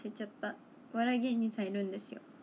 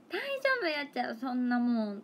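real Toyama dialect; 2 semitones higher than usual. Shown as a demonstration. Showing viewers how locals really talk, Toyama dialect. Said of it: "そんな感じでは使うけど".

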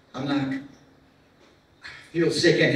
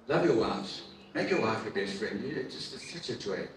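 tender urging; 3 semitones lower, 6 dB quieter than usual. Real, not acted. Urging husbands in the church to love their wives, softly. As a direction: speak it gently from the heart.

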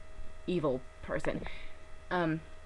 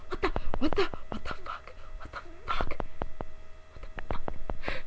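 stunned disbelief; 12 semitones higher than usual. Retold or imitated. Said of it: "I was like".

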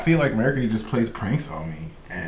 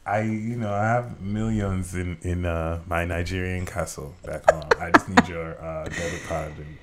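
hesitant Nigerian scam prince, trailing softer; Nigerian prince accent; 2 semitones lower, 3 dB quieter than usual. Pretend. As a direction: coax in a put-on Nigerian accent. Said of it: "can you do a Nigerian prince accent".

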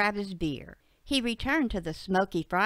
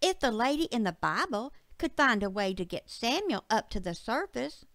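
put-on higher, earnest child voice; little girl Betsy; 6 semitones higher than usual. Betsy argues from a sermon with her dad, high girlish voice. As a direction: reason it out like a young girl.

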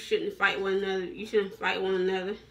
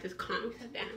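calm demo; 9 dB quieter than usual. Shown as a demonstration. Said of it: "like this".

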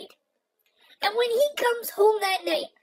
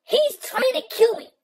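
mock scream; 2 semitones higher than usual. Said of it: "start screaming".

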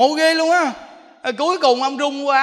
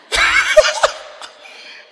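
high airy burst of laughter; 5 dB louder than usual. Real, not acted. Preacher laughing at own story.

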